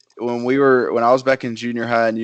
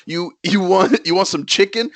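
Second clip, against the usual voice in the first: setup question; 5 semitones higher than usual. Acted. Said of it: "he just says the last thing that you said".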